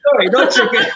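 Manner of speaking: high, amused self-correction; laughing correction. Real, not acted. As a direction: catch the slip with a laugh.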